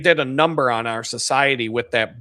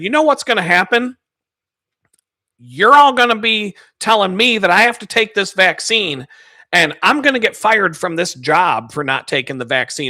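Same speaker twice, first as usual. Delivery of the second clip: mildly mad; 4 semitones higher, 4 dB louder than usual. Retold or imitated. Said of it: "I was kinda mad".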